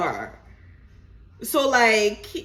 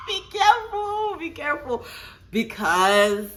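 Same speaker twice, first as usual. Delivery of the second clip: high, emphatic be careful; high warning; 7 semitones higher than usual. Shown as a demonstration. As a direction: lift it way up to warn them.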